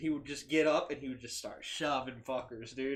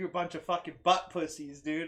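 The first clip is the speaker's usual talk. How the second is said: loud, rowdy, taunting put-on yelling; 3 semitones higher, 3 dB louder than usual. Retelling how a friend yelled insults across the street: imitating a friend yelling. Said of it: "he was yelling at him".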